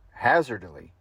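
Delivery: "hazardily" with its R's dropped. Shown as a demonstration. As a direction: drop the R's in "hazardily", Australian style. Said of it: "drop a lot of R's".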